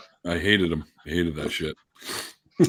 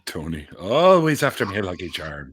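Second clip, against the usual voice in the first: lightly put-on Irish accent; a hint of Irish leprechaun, tailing off; 3 semitones lower than usual. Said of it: "it's a standard Irish accent".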